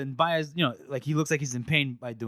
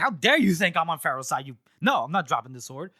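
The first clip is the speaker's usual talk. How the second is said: indignant, louder at the start; mock offended; 3 semitones higher, 3 dB louder than usual. Retelling a swordsman refusing to disarm, mock offended. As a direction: act out affronted refusal. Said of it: "now Giselle's offended".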